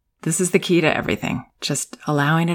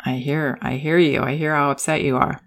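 calm acknowledgment; 2 semitones lower than usual. Shown as a demonstration. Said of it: "We would stay calm and say".

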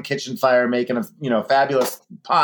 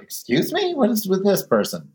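offended stranger. Retold or imitated. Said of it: "people are like".

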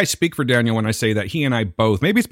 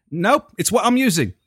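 badly faked Aussie refusal, pitched high; attempted Australian accent, stubborn; 6 semitones higher than usual. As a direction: dig in as an Australian rocker. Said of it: "I couldn't do an Australian accent".

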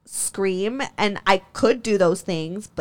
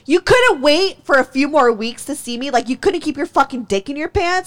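higher, pressing retold questions; raised-pitch incredulous rant; indignant disbelief; 5 semitones higher, 4 dB louder than usual. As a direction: scold with offended disbelief. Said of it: "how dare he".

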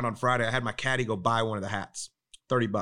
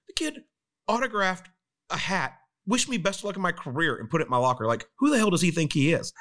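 much higher, indignant retelling of an outraged golfer; retold furious rant; 7 semitones higher than usual. Golfer fuming to his friend about a prank, high-pitched outraged rant. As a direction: play the fuming friend, voice jumping high in disbelief. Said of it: "he is just about ready to lose it".

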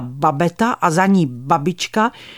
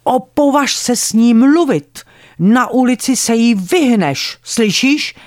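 raised, scolding grandmother voice; yelling at child; 4 semitones higher, 3 dB louder than usual. Retold or imitated. Grandmother yelling at little granddaughter, raised and scolding. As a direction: tell the child off sharply, a notch louder. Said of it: "začala ječet na mě".

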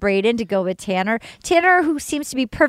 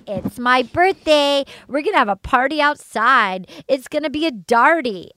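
feeling herself. Retold or imitated. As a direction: imitate someone full of herself. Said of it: "Kat's all outside feeling herself".

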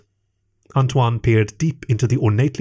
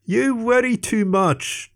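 chuckling; 12 semitones higher, slower than usual. A narrator's reading. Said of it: "chuckled Antoine".

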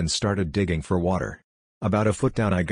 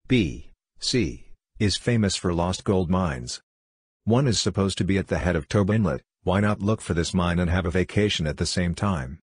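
synthetic robot narrator reading a story; steady computer voice storytelling. Real, not acted. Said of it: "I use a robot voice".

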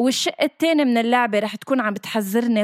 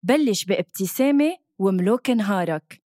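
upbeat commercial voiceover; ad read. Acted. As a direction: sell it like a radio ad. Reads radio ad script.

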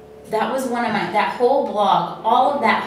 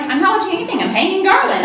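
high, loud, incredulous; baffled reply; 12 semitones higher, 6 dB louder than usual. Retold or imitated. Answering her friend while hanging garland: high, loud, baffled. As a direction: protest like it's obvious you're busy.

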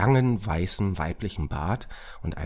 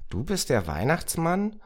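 put-on high, astonished child's question; amazed; 11 semitones higher than usual. A narrator's reading. Moritz learns who the stranger is, amazed. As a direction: pitch way up in disbelief. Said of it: "fragte Moritz verblüfft".

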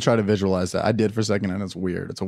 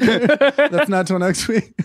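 high, slow, laughing clerk voice; mock clerk; 9 semitones higher, 4 dB louder, much slower than usual. The mock clerk telling a customer to wait, laughing. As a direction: play the clerk breaking the bad news, giggling.

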